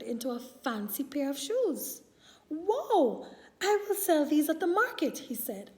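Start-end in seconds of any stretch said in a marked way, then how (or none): 2.5-5.2 excited. Acted. Shoemaker delighted by magic shoes.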